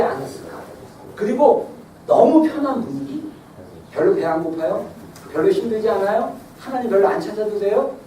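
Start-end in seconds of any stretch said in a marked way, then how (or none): 3.9-8.0 lazy rhetorical questions, lower; mock complacent questions. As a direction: voice the comfortable indifference. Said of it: "이런 분위기".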